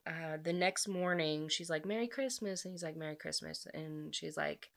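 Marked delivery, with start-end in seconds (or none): 1.8-2.6 higher, bright Merry Christmas from her; her cheerful greeting. Acted. Vanessa greeting Aiden on Christmas morning, higher and cheerful. She greets him, he replies. 3.0-3.7 his sleepy reply. Acted. Aiden answering Vanessa on Christmas morning, softer and sleepy.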